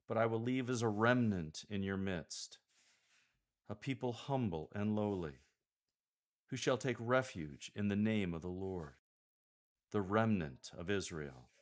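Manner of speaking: measured reading, pause after "midst", weight on "remnant"; emphasis on remnant. Shown as a demonstration. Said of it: "Emphasize both uses of the word remnant".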